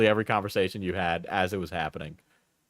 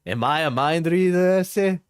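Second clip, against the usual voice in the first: put-on high, heated Latino accent; Latino Alex; 6 semitones higher than usual. Streamer voicing Alex's angry messages, hammed-up Latino accent. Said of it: "Do a Latino Alex".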